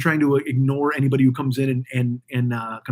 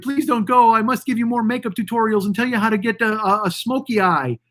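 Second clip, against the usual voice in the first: mock pleading YouTuber; 4 semitones higher than usual. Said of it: "they're like".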